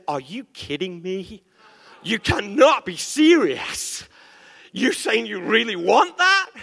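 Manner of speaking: a mock incredulous God. God answers a foolish prayer with mock disbelief. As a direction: play God in disbelief at the request. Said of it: "sometimes he says".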